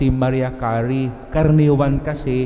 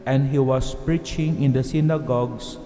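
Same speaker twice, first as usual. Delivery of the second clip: gospel reading; 4 dB quieter than usual. Acted. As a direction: proclaim it from the pulpit. Reads the gospel at mass.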